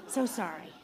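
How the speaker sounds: hushed "so sorry"; soft apology. Retold or imitated. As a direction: apologize softly, voice dropped low. Retells apologizing to someone.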